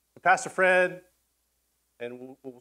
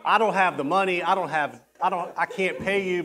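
mock begging; 2 semitones higher than usual. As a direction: plead for mercy, half in jest. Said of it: "begged and pleaded, like".

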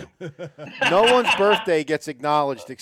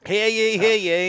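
town crier; 6 semitones higher, 4 dB louder, slower than usual. Pretend. Proclaiming Mike's birthday.

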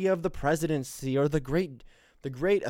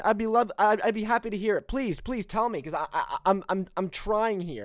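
barely held-back rage; 7 semitones higher than usual. Real, not acted. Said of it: "hold back the rage on this one".

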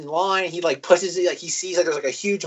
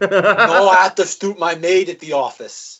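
laughing mock excuse; 4 dB louder than usual. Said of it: "laughing mock excuse".

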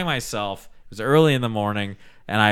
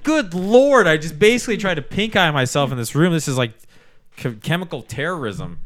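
higher and louder disgusted outcry; mock outrage; 5 semitones higher, 4 dB louder than usual. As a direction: exclaim it, appalled at yourself. Disgusted at own fart.

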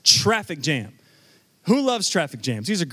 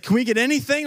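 imitating an eager son, higher pitch; excited kid; 7 semitones higher, faster than usual. Dad quoting his son at the gas station, excited. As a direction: raise it like a kid keen for treats. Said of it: "he's all excited".

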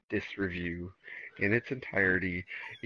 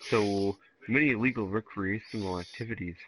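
put-on Canadian accent with lisp. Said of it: "read this as a Canadian with a lisp".

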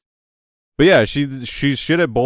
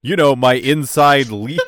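slow smug line, giggling; sly villain voice cracking up; laughing mock villain; 4 dB louder, slower than usual.

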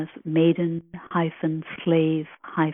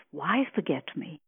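tender question. Shown as a demonstration. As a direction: lean gently on "Why". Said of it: "You see the difference".

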